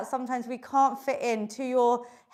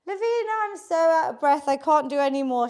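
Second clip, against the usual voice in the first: mock out of breath; faster than usual. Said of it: "Ten is".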